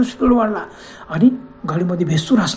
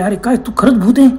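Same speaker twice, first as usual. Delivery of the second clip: higher, mildly raised disbelieving question; understated startled yell; startled exclamation; 4 semitones higher, 4 dB louder than usual. Acted. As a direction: cry out the question, rising at the end. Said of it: "एकदम ओरडले".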